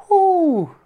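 loud, high drawn-out whoo; high-pitched exclamation, held long. Real, not acted. Exclaims over a big squirrel.

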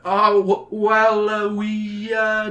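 stammering. A narrator's reading. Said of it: "Jake stammers".

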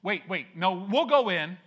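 hammed-up panic, high and loud; panicked backpedal. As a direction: scramble to take it back. Israelites panic at the wilderness.

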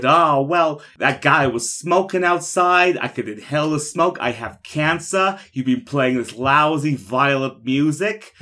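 put-on indignant old woman. Old woman's excuses voiced.

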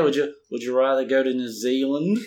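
badly faked New Zealand accent. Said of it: "that's my bad New Zealand accent".

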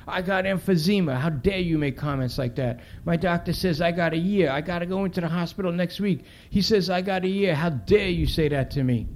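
indignant mother. Acted. Mother rebuking the cop's cigarette joke, indignant. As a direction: plead and scold as a sick mother.

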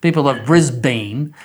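Brisbane said clearly with an unstressed last syllable; correct Brisbane. Shown as a demonstration. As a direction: lean into "Brisbane" as the proper way. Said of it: "which is the correct pronunciation".

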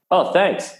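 high, innocent mock reply; naive thank-you. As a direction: play the mate who takes it literally. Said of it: "And it's like".

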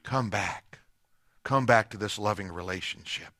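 very soft and low, almost breathless; God calling the lost back, hushed and low; whispered plea. Acted. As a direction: murmur it into a wandering heart. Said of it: "God is whispering in your ear".

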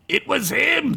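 high-pitched alarmed cry; Gunk. A narrator's reading. Gunk trying to grab Duncan, alarmed high cry. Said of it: "Gunk said".

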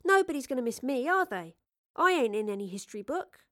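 put-on casual, streetwise young companion; a hint of cheeky pleading; lightly voiced Astrid. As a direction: shrug it off to win the argument.

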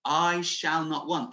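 slow, deliberate proclamation; firm declaration. Shown as a demonstration. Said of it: "a stake in the ground".

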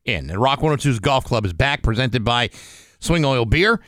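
chipper 1950s ad. Acted. Reads golf club promo ad.

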